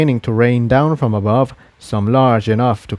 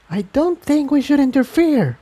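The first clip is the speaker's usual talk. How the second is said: near whisper. Acted. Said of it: "she said in a near whisper".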